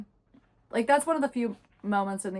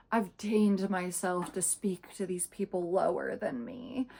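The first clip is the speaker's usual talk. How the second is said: mock-superior sigh, then slow delivery; condescending; slower than usual. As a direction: imitate someone lowering herself to speak, slowly. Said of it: "she thinks she's so much better".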